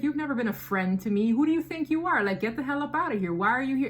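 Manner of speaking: indignant, quick telling-off with rising pitch; acted-out challenge, mildly heated; retold confrontation. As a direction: replay telling someone off, fired up.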